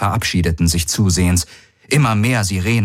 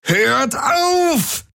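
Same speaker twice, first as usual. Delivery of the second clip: high desperate yell, weight on auf; bellowing. Acted. Jun yells again for them to stop, high desperate cry. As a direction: cry out auf as a final plea. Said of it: "brüllte Jun".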